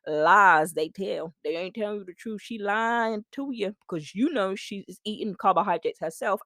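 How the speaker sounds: hammed-up American sass, loud and drawn out; fake American accent. Coach warns listeners off lying influencers, hammed-up American accent. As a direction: put on a sassy, scolding fake American accent. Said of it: "my poor, poor American accent".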